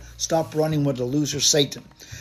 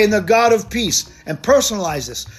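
fervent declaration; 2 semitones higher than usual. Shown as a demonstration. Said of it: "This is how you talk".

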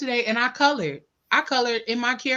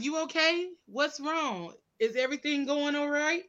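softer, imitated worried check-in; mock concern; 3 semitones higher, 7 dB quieter than usual. Imitating friends' reaction to her being nice, mock concern. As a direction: act out their concerned questions quietly. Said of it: "if I call y'all and be nice".

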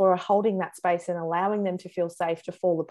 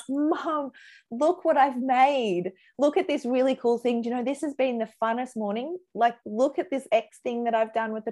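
put-on higher-pitched eager kid showing off; excited child; 5 semitones higher than usual. Oldest child showing mum what he made, excited. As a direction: voice a proud child calling to Mum.

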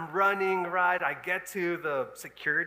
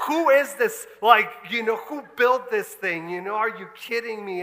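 indignant outburst; 3 semitones higher, 5 dB louder than usual. Retold or imitated.

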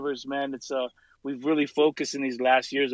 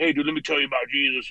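mock pushy preacher; faster than usual. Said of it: "walking around like".

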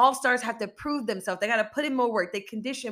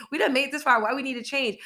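put-on complacent old self; 5 semitones higher, faster than usual. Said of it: "that's what the mind tells us".

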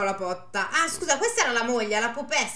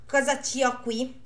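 coy priest's wife; 4 semitones higher, 5 dB louder than usual. Acted.

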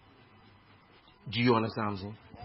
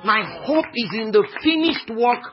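measured start growing louder; building declaration of faith; 3 semitones higher, 4 dB louder than usual. Real, not acted. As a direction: build steadily to a ringing confession.

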